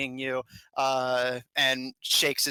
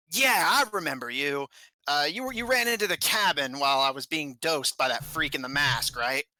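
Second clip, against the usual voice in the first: put-on lightly accented goblin, recalling a face; a touch of a gruff goblin guest; lightly voiced goblin, piecing the memory together; irritable goblin.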